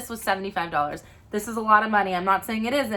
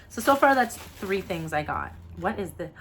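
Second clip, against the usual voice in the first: ordinary talk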